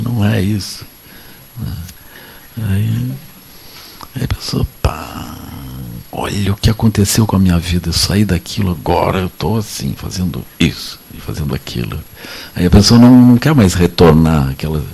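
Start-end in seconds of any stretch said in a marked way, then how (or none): none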